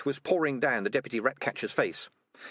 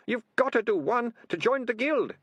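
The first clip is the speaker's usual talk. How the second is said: high-pitched, louder wailing moan; 4 dB louder than usual. Acted. Deputy ratcatcher confessing to his captors, moaning high. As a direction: wail it as a desperate excuse. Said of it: "Ratcatcher Two moaned".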